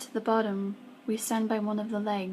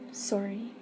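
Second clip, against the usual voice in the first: stuttering; 4 dB quieter than usual. A narrator's reading. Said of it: "he stutters".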